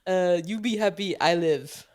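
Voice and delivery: Russian-sounding goat voice; broken-English goat; goat impression. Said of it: "that is my goat impression".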